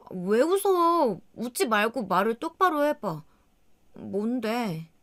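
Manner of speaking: retold wife snapping at her laughing husband; irritated demand. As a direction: demand he stop laughing and talk straight.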